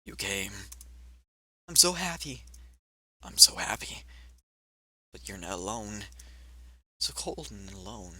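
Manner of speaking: hushed, low ghost voice, full of longing; lonely ghost. Acted. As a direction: speak faintly, like a lost lonely spirit.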